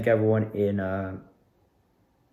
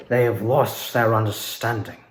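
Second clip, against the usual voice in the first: muted villain line. Shown as a demonstration. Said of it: "not doing the full-fledged voice".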